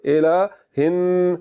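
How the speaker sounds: slow "इलाहिन" with a held nasal hum on n; ghunna. Shown as a demonstration. Teacher joining haa to noon, slow nasalised hold. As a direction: stretch the final n of "इलाहिन" through the nose. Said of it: "गुन्ना करना".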